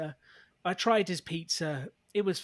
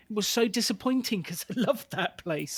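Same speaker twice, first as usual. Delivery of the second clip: laughing; 5 semitones higher than usual. Real, not acted. Shared laughter.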